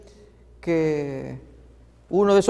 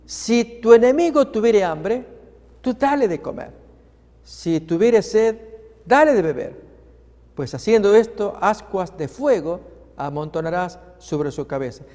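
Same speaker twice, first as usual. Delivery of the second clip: raised, deliberate verse reading; solemn Bible reading; 3 semitones higher than usual. Acted. Preacher reading Romans to congregation, raised and deliberate. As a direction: proclaim each line of the verse.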